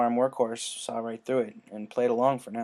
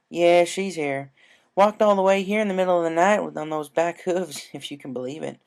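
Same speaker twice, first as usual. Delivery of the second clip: higher country voice, concerned; patient worried farm mare; worried Applejack; 5 semitones higher than usual. Acted.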